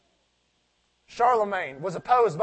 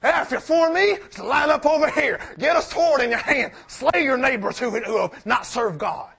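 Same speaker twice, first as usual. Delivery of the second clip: loud, high commanding call to arms; rally them like a stern leader; a rousing mock command to line up and fight; Moses rebuking the Israelites; 4 semitones higher, 4 dB louder than usual. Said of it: "He said".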